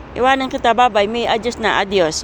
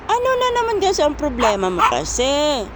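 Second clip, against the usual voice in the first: mock scolding; 3 semitones higher than usual. Real, not acted. Scolding dog, high pitch. (pabirong sermon sa aso, mataas ang boses)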